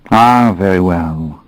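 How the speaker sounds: slow, gentle, smiling; a gentle smiling acceptance; gentle smile. Acted. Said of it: "giving her the gentlest smile I could manage".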